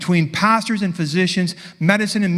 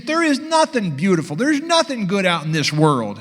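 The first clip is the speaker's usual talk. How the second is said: bitter woman voice; 3 semitones higher than usual. Retold or imitated. Retold argument, woman's voice.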